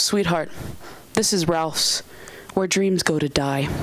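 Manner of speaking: low, deadpan imitation; world-weary manager. Manager answers crying new worker, world-weary deadpan. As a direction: let it drop low and matter-of-fact.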